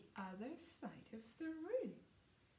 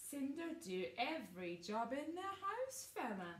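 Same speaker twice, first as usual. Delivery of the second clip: mock brother taunt; 4 semitones higher than usual. Bossy brother mocking Cinderfella, teasing sneer.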